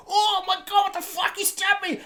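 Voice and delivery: very high squealed mock shock; mock panic. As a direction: play a stabbed man squeaking in disbelief. Acting out stabbed man's shock.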